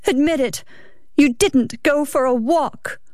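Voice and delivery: high, insistent challenge; accusing wife. Acted. Wife demanding her husband admit it, accusing.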